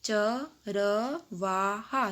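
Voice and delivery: किसान built up very slowly; slow spelling out. Shown as a demonstration. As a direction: join the sounds slowly into किसान. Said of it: "इसमें क के छोटी की मात्रा लगाई". (धीरे धीरे जोड़कर किसान)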